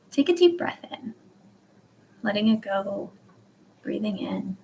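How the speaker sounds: unhurried cues with long pauses; guided breathing. Shown as a demonstration. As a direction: guide them through each breath, leaving room to breathe. Leads a breathing exercise.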